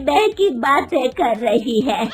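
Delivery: loud, mocking scolding with a scornful laugh; mother-in-law mocking her daughter-in-law's wish to work, loud and angry. A narrator's reading. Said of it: "उसकी सास गुस्से में कहती है".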